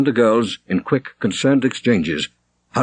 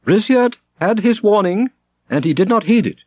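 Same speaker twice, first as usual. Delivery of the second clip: a pious prior's grave sentence; declaiming prior; 12 semitones higher, 3 dB louder than usual. A narrator's reading. Prior Robert continues.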